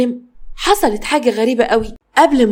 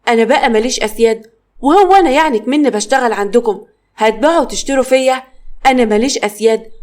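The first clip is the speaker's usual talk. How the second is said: angry. Acted. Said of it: "اتعصبت ماما".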